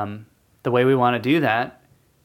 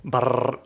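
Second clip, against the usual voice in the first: drum roll. Acted. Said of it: "That was terrible".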